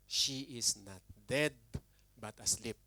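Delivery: slow, soft and measured, a lightly voiced Jesus; Jesus' calm words. Preacher voicing Jesus to the mourners, slow and soft. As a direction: lay the words down gently, slowly.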